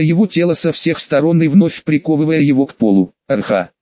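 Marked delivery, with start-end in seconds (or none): 3.3-3.7 low, brief groan of pain; understated pained groan, pitched low. A narrator's reading. Pinned beast pierced by rods, low pained groan. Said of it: "болезненно простонал Цербер".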